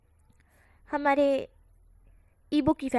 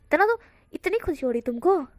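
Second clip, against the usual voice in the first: teasing; 3 semitones higher, 3 dB louder than usual. Acted. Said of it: "एकदम चिढ़ा रही है".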